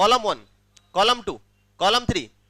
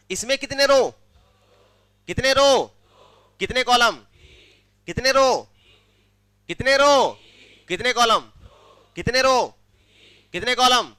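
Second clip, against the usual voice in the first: raised-voice quiz questions, each one punched out; drilling the class; 3 semitones higher, 3 dB louder than usual. Real, not acted. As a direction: prompt the class for a chorus answer. Rapid drill, class answers each time. (Class से जवाब बुलवाते हुए)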